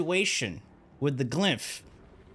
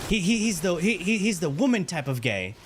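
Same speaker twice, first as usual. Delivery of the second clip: insistent mom; 2 semitones higher than usual. Retold or imitated. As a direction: push it like mom correcting you. Mom insisting, voiced by son.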